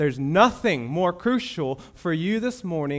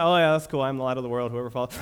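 offhand mock reading; 3 semitones lower, much faster than usual. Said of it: "we just read over this like".

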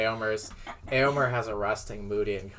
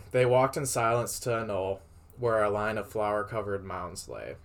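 measured read-aloud storytelling voice; story narration. A narrator's reading. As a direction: read it out like a tale. Reads fan fiction aloud.

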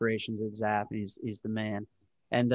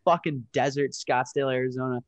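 exasperated rant; 5 dB louder than usual. Retold or imitated. To the hotel in the desert, an exasperated loud mock rant. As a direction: blast the hotel, fed up and laughing at it. Venting about hotel without Wi-Fi.

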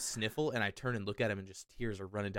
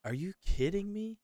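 surprised; 11 semitones higher than usual. Real, not acted. Disbelief at unseen movie.

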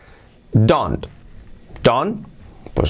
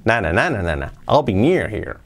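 "I'll be near here" with a peak on "near", falling away; intonation demo; 2 semitones lower than usual. Shown as a demonstration. Teacher demonstrating intonation, peak on "near" in "I'll be near here". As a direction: hum the tune in "na, na", then the phrase. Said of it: "La entonación".

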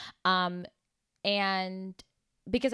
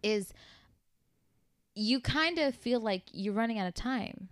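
passionate, louder; 5 semitones higher, 6 dB louder than usual. Real, not acted. Passionately pushes her view.

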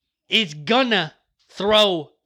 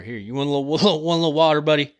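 gentle dad voice; 4 semitones lower, faster than usual. Real, not acted. Dad offering his little son water, gentle. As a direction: coax the little one to sip.

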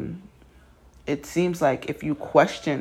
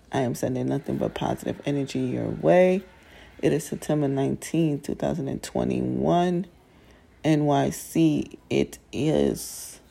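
groggy morning voice; 5 dB quieter than usual. Real, not acted. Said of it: "as you can hear it in my manly morning voice".

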